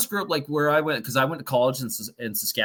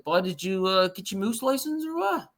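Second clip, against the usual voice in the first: put-on Newfoundland accent; 7 semitones higher, 3 dB quieter than usual. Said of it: "They're like".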